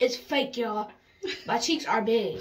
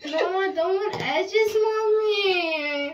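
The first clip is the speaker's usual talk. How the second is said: whine; 6 semitones higher, much slower than usual. Real, not acted. Whining at mom.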